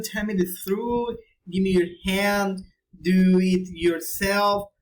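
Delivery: "tell me the truth" as a command that falls at the end; falling command intonation. Shown as a demonstration. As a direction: let "do it yourself" drop firmly at the end. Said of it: "command for intonation".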